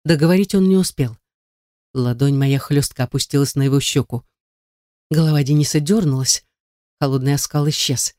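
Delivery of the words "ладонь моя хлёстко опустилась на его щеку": ordinary delivery, nothing marked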